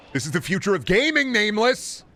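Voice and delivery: high-pitched, hammed-up excitement; mock hype shout. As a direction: cry it out like over-the-top game hype. Hype line repeated, much higher and louder.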